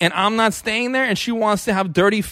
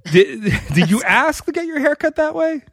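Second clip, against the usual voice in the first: higher, mock-innocent question; passive-aggressive question; 5 semitones higher than usual. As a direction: pose the criticism as an innocent question. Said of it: "It's this passive aggressiveness that's so funny".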